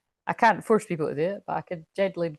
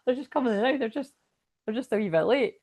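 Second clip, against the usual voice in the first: put-on Scottish accent; 5 semitones higher, faster than usual. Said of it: "where I'm from, we'll be like".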